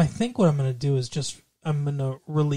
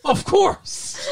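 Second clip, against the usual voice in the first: mock matter-of-fact; 13 semitones higher than usual. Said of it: "You can't just be like".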